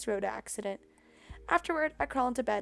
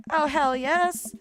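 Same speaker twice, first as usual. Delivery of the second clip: emphatic hell yes; 4 semitones higher, 6 dB louder, much slower than usual. Acted.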